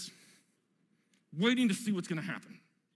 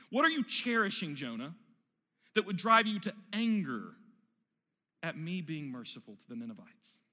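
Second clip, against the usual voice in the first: gentle patient God; 2 semitones lower than usual. Acted. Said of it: "patient parent".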